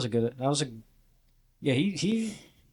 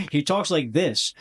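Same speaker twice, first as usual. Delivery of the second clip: slower demo voice; 2 semitones higher, slower than usual. Shown as a demonstration. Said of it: "It's not how he talks either".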